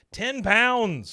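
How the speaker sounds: high, loud disbelief; amazed exclamation. Real, not acted. Host marvels at the pile of treats, loudly amazed. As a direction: exclaim it, pitch leaping up and falling.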